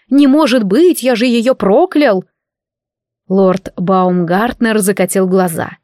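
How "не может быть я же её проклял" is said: higher-pitched, half-voiced mock outcry; mock yelling. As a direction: imitate a shocked killer crying out, without fully shouting. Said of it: "при виде меня начнёт орать". (насмешливо изобразить вопль убийцы)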